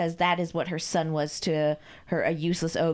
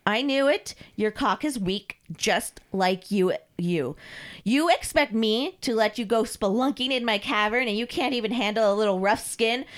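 scornful mistress; 3 semitones higher than usual. Acted. Mistress mocks Carl's weakness, scornful. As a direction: belittle your servant with relish.

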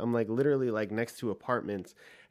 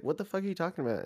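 incredulous outburst; 7 semitones higher, much faster than usual. Retold or imitated. Retold disbelief at girl.

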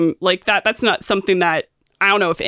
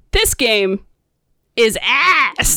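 hint of an angry game-reviewer catchphrase; mock disgust, drawn out on the last word; AVGN; 2 semitones higher, much slower than usual. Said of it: "Who could forget the classics".

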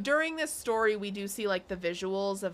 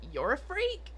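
mock shout; 9 semitones higher than usual.

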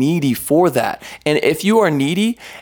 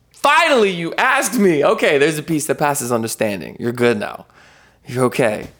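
God's voice; 2 semitones higher than usual. Retold or imitated. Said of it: "he's like".

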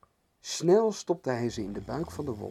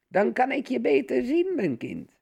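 gespeelde omastem; 11 semitones higher than usual. A narrator's reading. Wolf als oma antwoordt.

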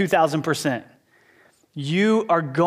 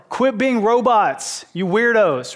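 loud, slow bark at the men; louder, higher shout with slow punched words; retold yell; 5 semitones higher, 4 dB louder, slower than usual. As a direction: yell it like a boot camp drill leader. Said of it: "And I yell".

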